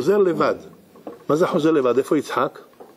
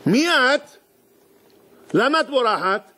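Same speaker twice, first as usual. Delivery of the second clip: angel asking, high; 9 semitones higher, slower than usual. Acted. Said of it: "המלאך נוחת עליה ושואל אותה".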